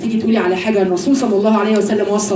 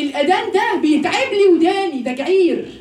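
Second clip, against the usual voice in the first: mock complainer; 5 semitones higher than usual. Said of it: "حد يجي يقول لك ايه".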